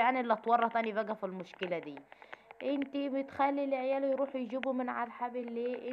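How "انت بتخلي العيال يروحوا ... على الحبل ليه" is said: higher-pitched mock nagging complaint; imitated scolding. Husband blames wife over the kids and clothesline, mock scolding.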